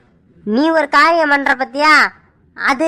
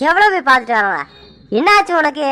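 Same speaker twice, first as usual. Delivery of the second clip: angry husband. Acted. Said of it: "நீ அவளுக்கு ஈடு கொடுத்து கோவமா பேசுற". (மனைவியை அதட்டும் கணவன், கோபமாக)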